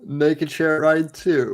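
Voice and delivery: slow mock title announcement; drawn-out film promo voice; movie trailer voice. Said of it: "It's like the movie voice".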